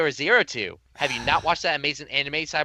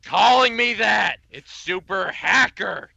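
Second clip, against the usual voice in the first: whiny protest; 5 semitones higher, 5 dB louder, slower than usual. Acted. Voicing the hacker character.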